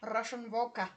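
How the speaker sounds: put-on a weak stab at a Russian accent on vodka; attempted Russian accent. To her partner, trying a Russian accent and failing. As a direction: say vodka the way a bad Russian impression would. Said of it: "I told you I'm not good with accents".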